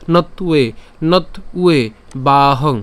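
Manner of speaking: "নতুয়ে" split as not, u-e; broken-up pronunciation. Shown as a demonstration. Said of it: "এভাবে উচ্চারণ করলেন".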